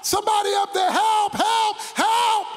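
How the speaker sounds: panicked high shouts for help; screaming for help. Acted. Man dangling over a ravine shouting for help, panicked shouting. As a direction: cry out desperately from the cliff. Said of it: "he screamed".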